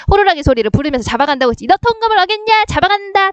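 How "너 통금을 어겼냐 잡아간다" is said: lightly acted curfew cop, higher pitch; a hint of a policeman catching a violator; patrol officer. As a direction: raise the pitch for a mock police threat. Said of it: "방범대원 경찰이 와서".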